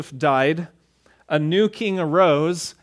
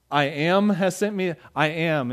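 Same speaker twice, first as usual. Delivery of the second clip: puzzled repeat. Retold or imitated. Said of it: "you go like".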